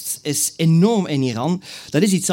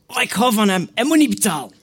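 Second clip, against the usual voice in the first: gushing boss; 6 semitones higher than usual. Retold or imitated. Restaurant boss refuses payment.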